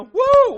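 loud, high "woo"; sudden whoop. Retold or imitated. Imitating people starting to react in church, loud whoop. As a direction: whoop like someone struck in the service.

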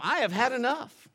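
fed-up mom. Retold or imitated. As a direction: put your foot down like an angry mom. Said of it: "Be like my mom".

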